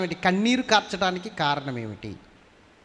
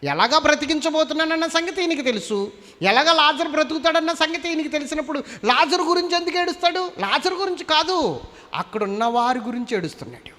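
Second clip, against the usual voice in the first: much higher, louder fiery sermon; full force preaching; 9 semitones higher, 3 dB louder than usual. Acted. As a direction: drive the point home to the crowd.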